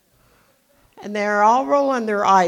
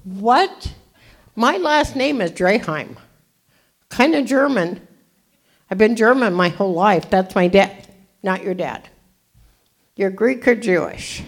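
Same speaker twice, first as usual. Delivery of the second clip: shocked disbelief; 3 semitones higher, 4 dB louder than usual. Retold or imitated. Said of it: "I'm like".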